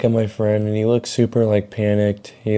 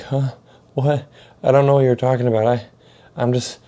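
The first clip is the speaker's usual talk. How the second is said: higher, halting confusion; flustered stammer; 3 semitones higher than usual. Retold or imitated. High teen accused by an angry mom, flustered stammer. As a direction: act lost for words, breaking off mid-sentence. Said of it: "I'm stuttering and shit".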